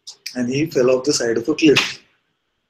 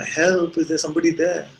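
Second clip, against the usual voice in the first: higher, drawn cry into emptiness; acted call for help; 5 semitones higher than usual. Dejected man makes one last try, acted high call. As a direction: call up hopefully, mock desperate. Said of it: "he makes one last try".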